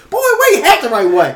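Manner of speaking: high-pitched imitation of a nagging mother; mock motherly telling-off; scolding mom. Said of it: "I can picture your mom saying that".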